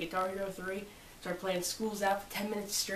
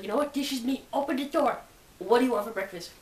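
calling out; 4 semitones higher, 5 dB louder than usual. Retold or imitated. Retells calling dad for breakfast.

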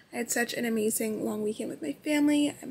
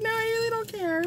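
laughing; 11 semitones higher than usual. Retold or imitated. Her own quoted reply, laughing.

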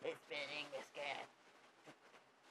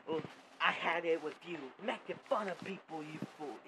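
loud angry scolding; shouted rebuke; angry outburst; 5 dB louder than usual. Acted. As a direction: tell him off, fed up. Angry confrontation.

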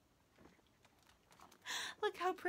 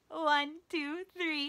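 eager countdown; 4 semitones higher than usual. Shown as a demonstration. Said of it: "I would love to roar with you".

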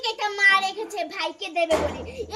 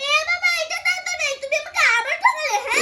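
mock anger; 6 semitones higher, 6 dB louder than usual. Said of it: "মিষ্টি খুব রেগে গেছে".

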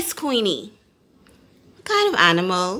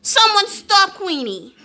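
higher, urgent call; calling for help; 9 semitones higher than usual. A narrator's reading. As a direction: plead for someone to stop the dog.

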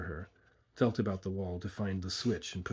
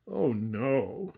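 higher mock denial; sneering; 4 semitones higher than usual. A narrator's reading. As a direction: sneer it at the victim. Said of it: "he sneered".

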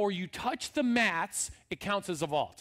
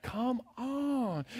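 encouraging; 3 semitones higher than usual. Shown as a demonstration. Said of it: "you can just be like".

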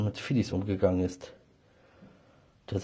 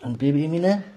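high, louder cooing to a kitten; 7 semitones higher, 7 dB louder than usual. Real, not acted. Owner calling sweetly to her kitten Emine, high cooing baby talk.

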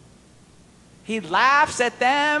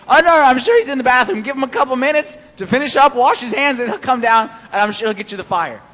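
fast, louder, teasing reassurance; mock reassurance; 3 semitones higher, 5 dB louder than usual. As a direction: rush it out like a smug heckler. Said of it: "So he's saying".

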